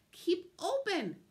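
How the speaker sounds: loud, high, drawn-out command; yell. A narrator's reading. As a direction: order it urgently, stretching the words. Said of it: "yelled Doctor DeSoto".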